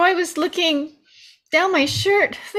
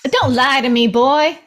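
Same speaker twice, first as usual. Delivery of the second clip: angry snap; 4 semitones lower, 6 dB louder than usual. Acted. Mama interrogating tied-up Chunk.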